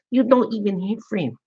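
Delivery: high, scolding put-on Asian accent; mock Asian accent. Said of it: "I only do good Asian accents".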